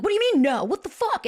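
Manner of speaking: high-pitched, incredulous mock outburst. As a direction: act out exploding at a partner, without real volume. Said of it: "like, exploding on him".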